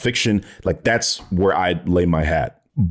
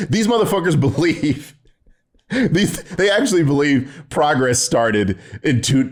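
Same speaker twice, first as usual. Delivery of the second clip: laughing through the words in disbelief; can't stop chuckling at how wrong they are; incredulous laugh-talk; 5 semitones higher than usual. Real, not acted.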